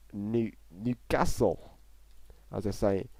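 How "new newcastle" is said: slow, halting stab at Geordie; failed Geordie accent. Retold or imitated. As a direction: badly attempt a Geordie accent, drawn out. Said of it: "I can't do the Geordie accent".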